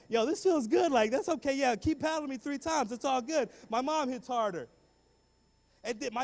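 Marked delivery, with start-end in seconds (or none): 0.1-4.7 high, loud, cocky taunt; mock bravado. Boy to principal during paddling, high-pitched bravado. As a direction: brag loudly that it doesn't hurt.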